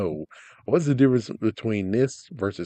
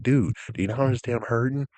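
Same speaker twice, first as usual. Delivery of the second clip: loud, higher, exasperated rant at a fool; angry rant; 4 semitones higher, 4 dB louder than usual. Retold or imitated. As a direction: yell it at the dumb jerk who doesn't get it. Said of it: "but it's like".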